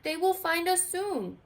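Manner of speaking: Skeleton voice. A narrator's reading. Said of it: "said Skeleton".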